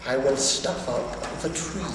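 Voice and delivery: low, sly villain voice; a scheming grin you can hear; grinning Grinch. Acted. Grinch turning to the tree, low sly grin. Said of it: "grinned the Grinch".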